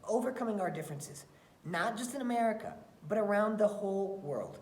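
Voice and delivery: put-on expressive read-aloud for children; story reading. Teacher reading a picture book to her class, expressive storytelling.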